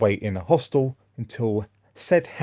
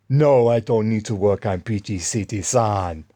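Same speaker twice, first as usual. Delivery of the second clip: mimicked African-accented refusal, louder at the start; imitated African accent; 4 dB louder than usual. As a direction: lightly put on the man's African accent. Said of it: "black African".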